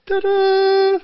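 loud, high mock fanfare. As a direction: announce it like a magic trick. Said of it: "Tim, what are you trying to say?".

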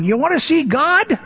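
high, Irish-lilted preacher voice imitated; Irish accent. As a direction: mimic an old Irish preacher asking a question. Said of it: "in his Irish accent going".

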